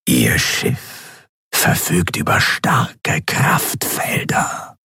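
a powerful figure who never needs to raise his voice; cold whispering governor. A narrator's reading. The governor demands the admiral's report, cold whisper.

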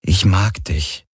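slow, gentle confession; calm and gentle. A narrator's reading. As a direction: say it calmly, taking your time. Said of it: "sagte er ruhig und sanft".

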